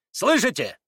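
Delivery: sharp high cry of triumph; exclaiming prince. A narrator's reading. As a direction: prince calling Natasha to listen, exclaiming. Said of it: "вскричал князь".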